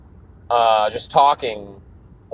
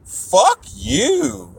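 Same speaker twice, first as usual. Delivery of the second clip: high, sharp mock retort; indignant; 10 semitones higher than usual. Speaker retelling her indignant reaction to Anthony, mock snap. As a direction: snap back, offended. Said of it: "I got indignant".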